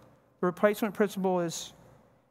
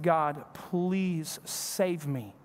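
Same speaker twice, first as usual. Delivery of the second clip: retold tearful plea; 3 semitones lower, much slower than usual. Preacher retelling his prayer while crying in the truck. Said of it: "and I'm crying".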